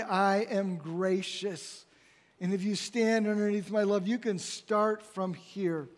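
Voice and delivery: very slow, gentle God voice; slow, gracious. Acted. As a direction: let each word settle, offering grace. God speaking grace over listeners.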